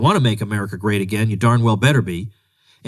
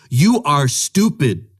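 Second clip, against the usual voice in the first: mock dumb voice; 3 semitones higher, much slower than usual.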